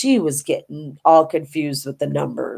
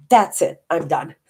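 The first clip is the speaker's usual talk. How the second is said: fed-up outburst. Retold or imitated. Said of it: "My sister got mad and she goes".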